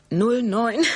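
laughing. Real, not acted. Reads numbers, laughs, corrects.

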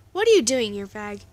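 loud jeering shout; screamed taunt. Acted. Bully screaming at the boy who intervened, loud taunt. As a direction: yell it at him, mocking. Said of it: "Cody screamed".

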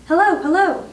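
high, loud parrot call. A narrator's reading. Parrot stuck up the chimney, calling out high. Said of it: "the bird called down to her".

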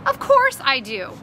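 scornful puff, then a grumble; mildly exasperated retort; huffy. Acted. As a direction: huff it out. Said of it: "Connor huffed".

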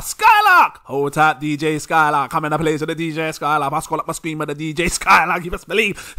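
big him up like a DJ on the mic; hype DJ MC. Pretend. Shouting out DJ Skylark in a hammed-up DJ MC voice. Hyping a supporter like a DJ.

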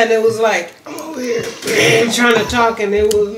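clearing a blocked throat; strained voice after choking; hoarse throat. Real, not acted. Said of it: "it went down the wrong way".

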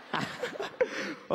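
high chuckle at own joke; short high-pitched laugh. Real, not acted. Joking with the audience.

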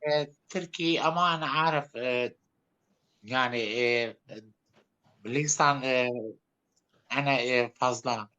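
halting, broken Turkish like a foreigner. Pretend. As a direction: fake a foreigner struggling with Turkish. Streamer poses as a foreigner. (yabancı gibi bozuk Türkçe)

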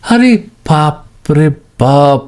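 slow, drawn-out mock astonishment; comic wide-eyed disbelief; mock amazement. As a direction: stretch it like you can't believe it. Amazed at viewer answers.

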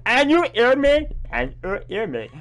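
"And you hear me?" with a high rising question on "you". Shown as a demonstration. Streamer reading the garbled subtitle again, as a rising question. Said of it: "There's no C here".

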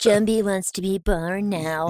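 a hint of a creepy child, slow; lightly mock the eerie kid; creepy kid line. Mocking the movie's creepy child line, lightly and slowly. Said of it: "the little kid says that stupid line".

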